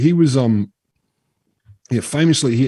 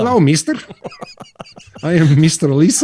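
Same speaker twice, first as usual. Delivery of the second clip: silly high voice; 7 semitones higher, 5 dB louder than usual. Pretend. Silly put-on character voice.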